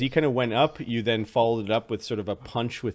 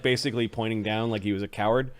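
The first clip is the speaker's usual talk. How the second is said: normal talking voice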